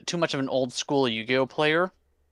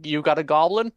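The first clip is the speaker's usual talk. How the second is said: chirpy higher voice of the goblin deck, eager; personified deck; 5 semitones higher than usual. Retold or imitated. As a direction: play the deck as an overeager salesman offering goblins. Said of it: "and it's just".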